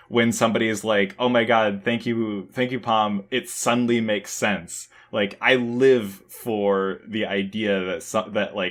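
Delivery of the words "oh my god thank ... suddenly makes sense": ordinary talk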